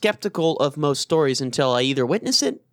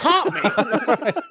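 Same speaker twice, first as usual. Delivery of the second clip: taunting shout; 8 semitones higher than usual. Pretend. Taunting a ghost to haunt.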